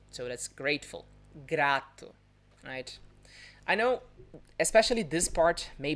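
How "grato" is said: "grato" with a tapped R; vibrating R. Shown as a demonstration. Teacher repeating the word meaning grateful, vibrating R. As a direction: flick the R after the G in "grato".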